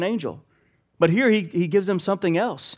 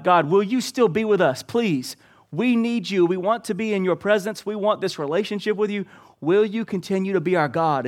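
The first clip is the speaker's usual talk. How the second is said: earnest, slightly raised plea; pleading; 4 semitones higher than usual. Acted. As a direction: implore God on the people's behalf. Acting out Moses begging God.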